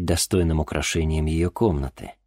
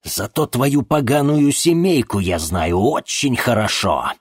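hissed through teeth; 6 semitones higher, 4 dB louder than usual. Acted. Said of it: "процедил Толоконников-старший".

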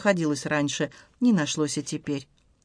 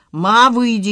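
louder barked order; 5 semitones higher, 8 dB louder, slower than usual. Acted. Stas orders his mother out, barking. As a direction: bark it at mother without turning. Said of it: "рявкнул Стас".

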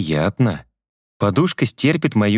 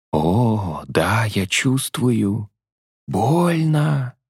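woman's voice, mock pleasure; 2 semitones higher, much slower than usual. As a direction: play her sighing in mock ecstasy.

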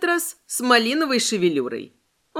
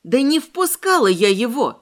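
bristling retort; 4 semitones higher, 3 dB louder than usual. Acted. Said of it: "Тут же ощетинилась я".

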